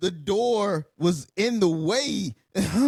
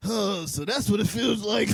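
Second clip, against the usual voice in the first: laughing. Real, not acted. Mocking the stabbed man.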